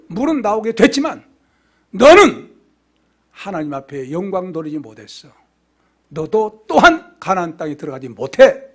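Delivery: acted stern judgment with loud bursts; stern rebuke, punching key words; wrathful verdict. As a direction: pronounce the sentence as an angry God. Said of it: "진노하신 거예요".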